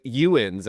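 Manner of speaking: "You ins" opened into two parts, YOU-inz; imitated country "You ins"; East Tennessee dialect. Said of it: "They're like".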